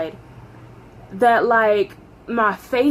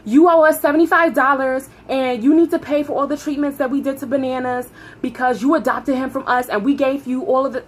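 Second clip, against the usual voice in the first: supervisor's tirade; 2 semitones higher than usual. Retold or imitated.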